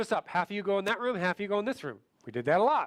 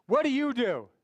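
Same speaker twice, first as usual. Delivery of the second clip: raised, higher-pitched voice; talking loud; 4 semitones higher than usual. Shown as a demonstration. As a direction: speak up boldly. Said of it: "talking really loud".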